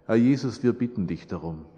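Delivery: subdued, sincere prayer voice. Real, not acted. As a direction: pray gently, voice sinking at phrase ends. Leads a closing prayer.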